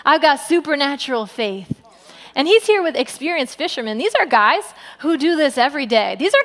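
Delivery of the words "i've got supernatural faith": calm. Retold or imitated. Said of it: "He's like".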